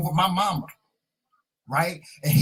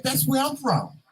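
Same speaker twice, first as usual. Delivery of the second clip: excited; 9 semitones higher than usual. Retold or imitated. Repeats excited reply.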